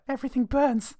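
the Joker. Pretend. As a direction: cackle it out like a mad villain. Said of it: "And now he's the Joker".

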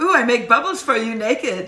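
high, loud Russian seductress act; Julia, Russian accent. Retold or imitated. Co-host playing Julia winning over Brandon, mock Russian accent. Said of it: "so Russian about this".

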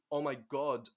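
GOD ending without its D; dropped final D. Shown as a demonstration. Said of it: "the D at the end becomes".

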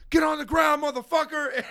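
high, loud cop-style command; bounty hunter yell. Retold or imitated. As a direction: bark it like a wannabe bounty hunter. Brother tackles the guy.

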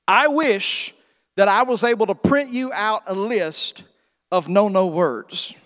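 put-on sing-song voice for little kids; kindergarten teacher voice. Shown as a demonstration. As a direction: explain it like to small children. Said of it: "I'm talking like a kindergarten teacher".

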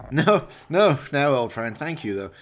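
a villain dismissing his dead henchman; Valdemar, cold villain. Acted. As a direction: savour each cruel word. Valdemar voiced in the story.

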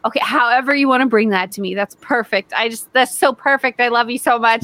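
lightly gushing fake sweetness; imitating a syrupy customer; mock syrupy. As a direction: overdo the niceness a touch, mockingly. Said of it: "weird fake syrupy voice".

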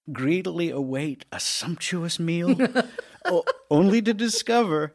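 laughing loudly while telling; story breaks into big laughter; laughing through pain. Acted.

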